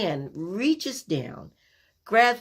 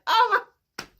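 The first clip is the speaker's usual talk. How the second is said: dazed oh my; 5 dB louder than usual. Retold or imitated. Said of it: "I'm like".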